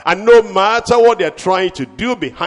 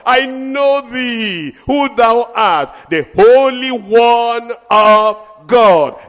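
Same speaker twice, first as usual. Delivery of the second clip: spirits crying out. Retold or imitated. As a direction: build from plea to awe. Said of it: "will cry out".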